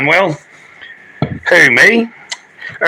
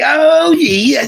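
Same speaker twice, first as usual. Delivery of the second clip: high shouted delight; high excited shout; excited squeal; 11 semitones higher than usual. Real, not acted. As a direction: burst out thrilled. Thrilled by his dog.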